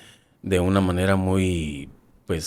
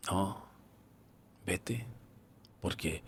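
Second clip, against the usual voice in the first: weak plea; 16 dB quieter, much slower than usual. Retold or imitated. Dying comrade pleading weakly.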